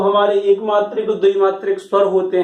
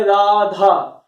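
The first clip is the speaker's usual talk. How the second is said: राधा called loudly, both रा and धा stressed and drawn out; calling out loud; much slower than usual. Shown as a demonstration. Teacher demonstrating how to call राधा from far away, loud. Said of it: "जब राधा जोर से हम लोग पुकारेंगे".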